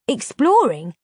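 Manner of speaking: "Exploring?" thrown out loud and high in disbelief; surprised exclaim. Acted. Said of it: "exclaimed Delph".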